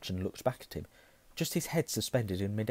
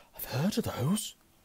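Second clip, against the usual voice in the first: slightly hushed voice, pitched up; 7 semitones higher than usual. After a gasp, a boy speaks as a shimmering cloth spills onto the floor, in a hushed voice. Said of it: "he said in a hushed voice".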